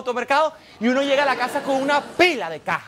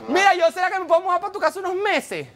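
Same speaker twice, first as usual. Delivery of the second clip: lightly voiced, higher-pitched cousin on the phone; cousin from back home; 4 semitones higher than usual. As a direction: pitch it up as a cousin angling for a favor. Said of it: "te llama un primo de tu país y te dice".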